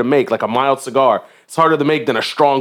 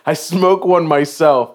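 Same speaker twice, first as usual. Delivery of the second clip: slow, deliberate retelling; 3 semitones higher, slower than usual. Real, not acted. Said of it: "this is funny as shit".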